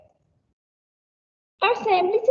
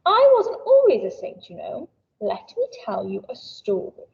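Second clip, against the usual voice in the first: Saint Paul voice; 5 semitones higher than usual. Acted. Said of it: "He says".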